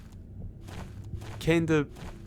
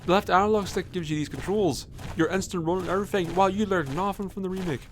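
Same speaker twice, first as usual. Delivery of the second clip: excited; 4 semitones higher than usual. Real, not acted. Excited about new controls.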